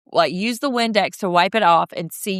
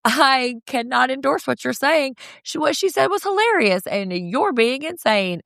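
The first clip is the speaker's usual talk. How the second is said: rising higher and higher; building outrage; 4 semitones higher than usual. Retold or imitated. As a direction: build from calm to shrill. Quoting Venus getting heated.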